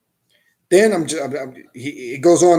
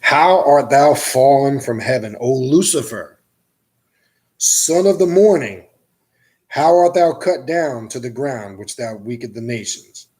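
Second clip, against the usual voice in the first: slow, measured mock-solemn Bible reading; solemn scripture reading. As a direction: read it like a pulpit verse, slowly. Reads Isaiah aloud slowly.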